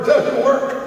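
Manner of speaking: "it doesn't work" wailed high and loud; child screaming. Retold or imitated. Five-year-old wailing "it doesn't work" at the TV, high and loud. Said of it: "screaming and crying like bloody murder".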